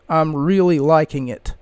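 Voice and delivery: flat, uninflected quote; monotone voice. Retold or imitated. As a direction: say it with no inflection at all. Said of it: "a monotone voice".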